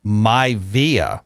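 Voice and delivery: "Maivia" as MY-vee-uh, slow and clear; Maivia said carefully. Shown as a demonstration. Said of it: "I say Maivia".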